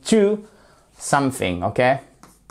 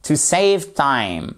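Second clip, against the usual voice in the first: slow model phrase; much slower than usual. Shown as a demonstration. Teacher models the phrase slowly for learners. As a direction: stretch every word of "To save time". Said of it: "slow model phrase".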